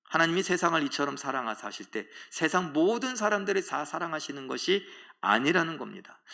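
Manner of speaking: normal talking voice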